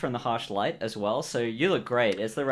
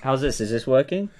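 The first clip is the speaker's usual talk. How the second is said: muffled, as if into a cup; 4 dB louder than usual. Pretend. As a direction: talk into a cup for a Bane voice. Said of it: "You should try talking into a cup".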